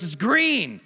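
the upset customer pointing out the wrong color; angry customer. Retold or imitated. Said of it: "He goes".

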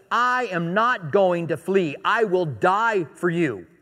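slow, weighty declaration; deliberate, emphatic pledge of loyalty; earnest vow. Acted. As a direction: vow it slowly, word by word. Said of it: "Peter was serious".

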